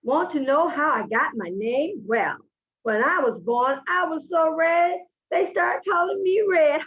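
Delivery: put-on high, slow storybook kid voice; child character voice. Shown as a demonstration. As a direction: read it as the little girl Red, slowly.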